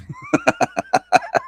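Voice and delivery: a sudden cackle way up high; high cackling laugh. Real, not acted. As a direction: burst out cackling at the picture. Laughing at the meme.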